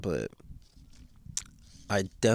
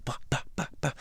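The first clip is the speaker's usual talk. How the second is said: imitated tumbling-dryer thumps; 5 semitones higher, 7 dB quieter, faster than usual. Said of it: "his chest is a dryer".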